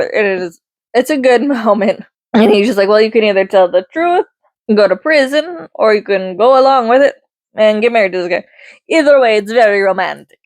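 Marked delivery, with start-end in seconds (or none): 2.9-10.4 put-on a light, clumsy Italian accent, barely there; half-hearted Italian accent in a movie-recap quote; bad Italian accent. Lorenzo talking Anna into the fake engagement, faint Italian accent. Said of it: "the very bad Italian accent".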